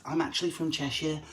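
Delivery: lightly voiced wife insisting she's from Cheshire; wife objecting. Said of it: "Although Lindsay says".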